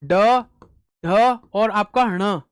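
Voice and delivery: ढ and ण said slowly and clearly; slow teaching voice; slow listing. Shown as a demonstration. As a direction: count out the letters slowly. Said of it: "ट वर्ग आएगा ना".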